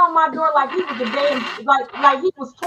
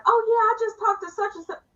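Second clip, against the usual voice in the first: higher, breezy daughter impression; imitating oldest daughter; 9 semitones higher than usual. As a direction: toss it off lightly like a teen. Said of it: "my oldest daughter was like".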